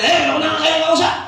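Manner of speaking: high, curt imitation of a rude child; mock wrong tone. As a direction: act out a child addressing a parent disrespectfully. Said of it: "bakit ang tono mo".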